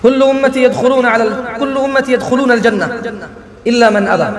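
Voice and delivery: slow, measured Arabic recitation; Arabic hadith recitation. Acted. Preacher reciting hadith to congregation, slow devout recitation. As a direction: chant the hadith slowly and devoutly.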